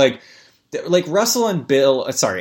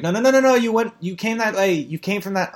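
higher, frustrated no-no-no at someone lost; exasperated calling out; 5 semitones higher than usual. Pretend. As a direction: steer a hopeless walker back, exasperated. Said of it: "and you're like".

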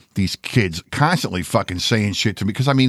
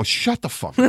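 high mock yell of shut the fuck up; retold yell; 12 semitones higher than usual. Telling a classmate off in class, high mock yell. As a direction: snap it back high and sharp, imitating his younger self. Retold snapping back at bully.

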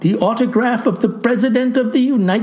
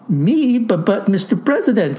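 stammering. Acted. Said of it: "stammers I".

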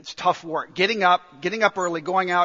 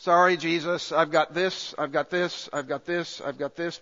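dismissive excuse; 2 semitones lower than usual. Retold or imitated. Mock excuse to Jesus, fading.

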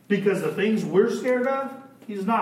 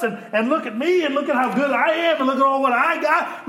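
mock bragging; 6 semitones higher than usual. Mocking self-centred age.

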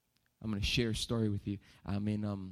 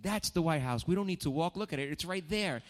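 mock dad voice; 7 semitones higher than usual. Dad insisting during retold argument.

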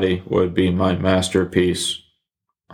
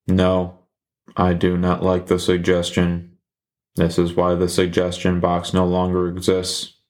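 deadpan sarcasm; flat, dry sarcasm; sarcastic. Acted. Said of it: "That was also sarcasm".

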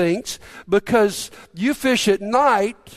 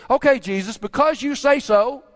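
sarcastic; 3 semitones higher than usual. Retold or imitated. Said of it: "you can just hear the sarcasm in his voice".

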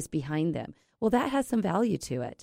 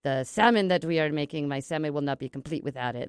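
lightly voiced French chef; mildly hammy, clumsy French accent; bad French accent; 3 semitones lower than usual. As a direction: attempt a French accent, understated. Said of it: "I have a really bad accent".

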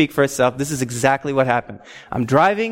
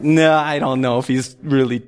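lower-pitched skeptical musing; mildly dubious inner voice; acted doubt; 5 semitones lower than usual. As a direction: voice a nagging doubt to yourself. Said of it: "little inkling of doubt".

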